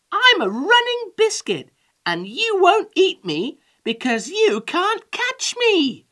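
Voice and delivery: high, loud and gleeful boast; laughing taunt. A narrator's reading. Gingerbread man taunts the old woman, laughing high. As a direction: crow it like a cheeky runaway. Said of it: "he laughed".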